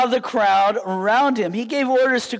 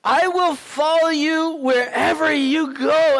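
slow, earnest vow; 3 semitones higher than usual. Retold or imitated. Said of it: "came to him and said".

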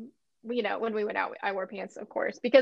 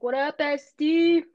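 slow, lightly pitched-up bro "What up"; bro greeting; 4 semitones higher, 3 dB louder, slower than usual. Pretend. Friend tries out a bro nickname, casual bro greeting.

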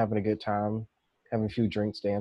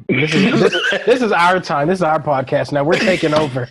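mock bossy; 4 dB louder than usual. Playful takeover of the podcast.

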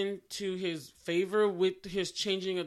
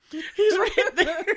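much higher and louder, slow, laughing; laughing exasperation; 10 semitones higher, 6 dB louder, much slower than usual. Acted. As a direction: laugh in disbelief, drawing it out slowly.

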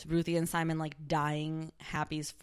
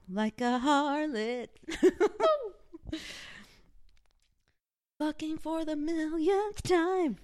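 high, slow line through laughter; laughing mockery; 9 semitones higher, slower than usual. Mocking the show's harlot through laughter. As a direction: sneer at the character while laughing.

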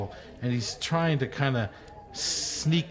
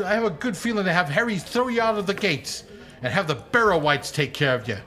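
scolding innkeeper; 6 semitones higher, faster than usual. Acted. Innkeeper Daisy scolds halfling.

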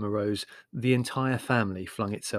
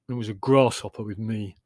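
mildly gloomy grumble; 4 dB louder than usual. Acted. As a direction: add it glumly. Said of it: "said Leslie gloomily".

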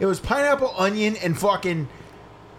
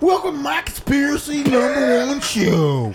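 country singer impression; 8 semitones higher, 4 dB louder than usual. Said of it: "I'm a country singer".

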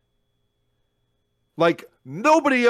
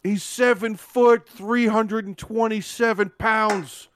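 announcer voice; 5 semitones higher than usual. Pretend. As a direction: boom out a wrestler's billing. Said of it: "I was play".

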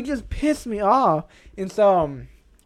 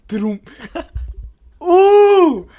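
loud, high, drawn-out "ooh"; imitated frustrated outburst; 7 semitones higher, 4 dB louder than usual. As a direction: act out a noisy burst of frustration. Acting out his keyboard outburst.

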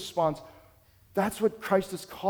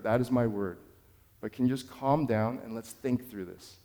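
calm reassuring; 5 semitones lower, 5 dB quieter than usual. Retold or imitated. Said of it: "I just verbalized calmly".

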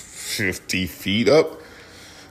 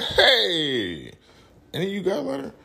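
mock sweet asking. Retold asking strangers for lighter.

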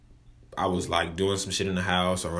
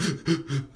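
imitated sob gasp; 7 semitones higher than usual. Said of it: "I'm huffing and puffing".

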